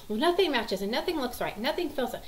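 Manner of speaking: put-on a touch of exasperated kid; upset child. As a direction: lightly imitate a fussy child complaining. Upset child rejects every shoe.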